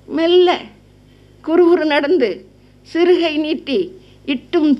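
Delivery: put-on measured, sing-song recital of an old verse; chanting a Sangam verse to the audience; poem recitation. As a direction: lift each line like classical poetry.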